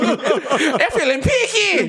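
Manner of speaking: put-on high, drawn-out Jamaican-accent holler; leering club mascot with a Jamaican accent; laughing, hammed-up Jamaican cry; mock Jamaican shout. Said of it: "a Jamaican man".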